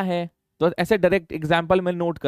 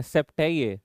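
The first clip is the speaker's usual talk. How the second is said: सेप्ट पर ज़ोर, हेप्ट नहीं; सेप्ट साफ़ बोलकर सुधारना; stress on सेप्ट. Shown as a demonstration. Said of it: "ये सेवन पर देखना भूल जाते हैं". (सेप्ट शब्द पर ज़ोर देकर सुधार)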